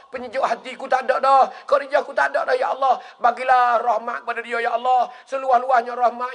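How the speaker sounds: high, pleading prayer with repeated cries to God; grieving prayer. Retold or imitated. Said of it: "Nabi kita berdoa". (doa rayuan penuh duka dengan nada tinggi)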